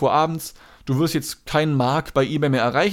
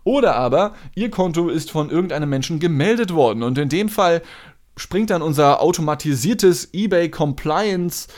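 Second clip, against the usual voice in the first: customer service voice. Retold or imitated. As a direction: overdo the polite apology. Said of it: "so übertrieben freundlich".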